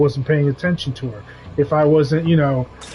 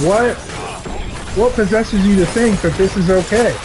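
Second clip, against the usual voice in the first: scolding the dog; 3 semitones higher than usual. Retold or imitated. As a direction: let her have it, disbelieving. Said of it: "I'm like".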